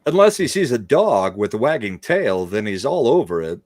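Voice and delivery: swooping celebrity impression for a punchline; halting lilt that rises sharply and falls; Christopher Walken. Back in his Walken voice, joking.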